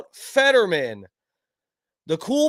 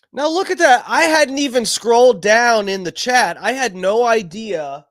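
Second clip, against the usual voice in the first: surprised; 6 semitones higher, 6 dB louder than usual. Real, not acted. Surprise at chat messages.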